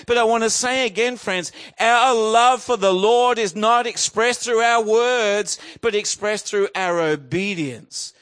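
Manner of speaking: fervent, driving sermon delivery; emphatic preaching. Real, not acted. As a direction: press the point home to the congregation. Preacher drives the point home.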